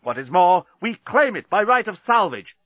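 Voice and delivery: high, impassioned declamation; ringing defiant speech. A narrator's reading. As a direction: proclaim your grievance to the enemy fleet. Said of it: "his voice rang round".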